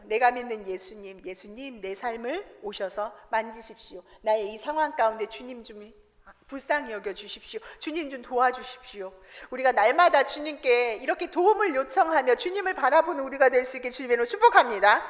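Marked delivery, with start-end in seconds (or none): 0.0-9.1 soft, lower, humble plea; quiet prayer. Retold or imitated. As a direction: pray it softly to the Lord. (조용히 간구하는 기도)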